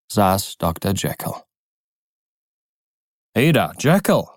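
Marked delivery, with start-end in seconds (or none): 3.3-4.3 lauter, höherer Zuruf zum Fenster hinauf; ruft hinüber. A narrator's reading. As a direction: ruf ihn freundlich von der Gasse aus an. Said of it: "rief Utterson". (Utterson ruft Jekyll am Fenster zu, laut und hoch)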